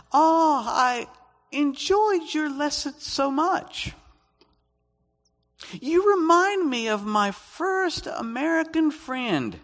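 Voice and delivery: very high-pitched, gushing impression; Chinese English teacher. Chinese teacher praising a visitor's lesson, mock high-pitched gushing. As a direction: imitate her in a slow, squeaky-high voice. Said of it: "a Chinese English teacher".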